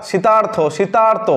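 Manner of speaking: শীতার্থ said slowly twice, with the ar sound drawn out; slow sound demo. Shown as a demonstration. Teacher shows pupils the ar sound, slowly. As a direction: spell out শীতার্থ slowly so the ar is heard. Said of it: "আর যখন আর উচ্চারণ হবে".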